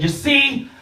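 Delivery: high, loud, slow proclamation; proud yell. Retold or imitated. Proclaiming to the class, a high slow grand yell. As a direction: announce it grandly to the whole class, slowly.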